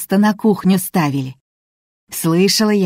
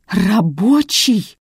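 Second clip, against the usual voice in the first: slow, raised, bitter echo; 4 semitones higher, much slower than usual. A narrator's reading. Son repeating his mother's answer, bitterly. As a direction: drag the word out in bitter disbelief. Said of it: "с горечью повторил Борис".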